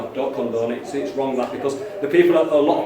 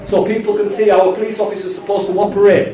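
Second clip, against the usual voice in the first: pitched up and pushing hard to be heard; raised passionate voice; 5 semitones higher than usual. Real, not acted. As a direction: argue it with heat, voice climbing. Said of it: "If you just try and keep voice on it".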